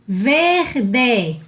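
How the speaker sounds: VERDE split as "VER-de"; sounded R. Shown as a demonstration. Teacher pointing out the R, syllable-final R sounded. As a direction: hold the R before the D in "Verde". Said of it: "Olha o R".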